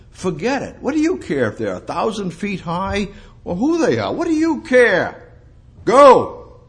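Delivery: high, forceful dismissal building to a shout; emphatic command. Acted. God urging Israel on against giants, loud and commanding. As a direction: wave off the threat, then shout the final order.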